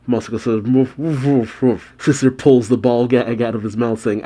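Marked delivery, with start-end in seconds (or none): 0.6-1.9 imitated gagged woofs; muffled woofing. A narrator's reading. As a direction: mimic someone trying to talk through a gag. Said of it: "responds with muffled woof".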